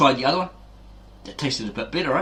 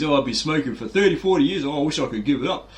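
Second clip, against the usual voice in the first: put-on old smoker whining; 4 semitones higher than usual. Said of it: "old guy there says".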